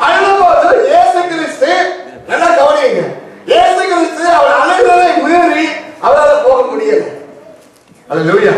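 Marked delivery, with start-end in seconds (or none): 0.1-7.1 raised, emphatic preacher's voice; forceful sermon declaration; impassioned preaching. Acted. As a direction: preach it out to the congregation.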